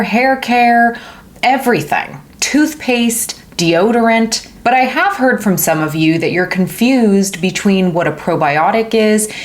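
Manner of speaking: normal talking voice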